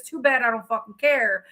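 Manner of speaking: ordinary talk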